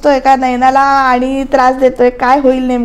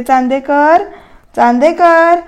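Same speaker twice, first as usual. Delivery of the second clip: calling a name across the house, rising; calling Chandekar from the bedroom; slower than usual. Retold or imitated. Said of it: "मग ती हाक मारते".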